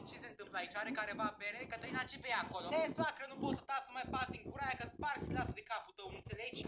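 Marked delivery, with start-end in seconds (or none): 2.8-6.7 lightly acted drunk retort; drunk talk. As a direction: sound a little tipsy while threatening. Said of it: "vorbește ca o bețivă cu mine".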